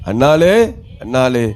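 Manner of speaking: Elkanah. Acted. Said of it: "அவரு கேட்காரு தன் மனைவியை பார்த்து".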